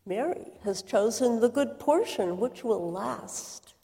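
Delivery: soft, calm voice of Jesus; Jesus gently calming anxious Martha; gentle reassurance. Acted. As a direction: softly soothe a worried friend.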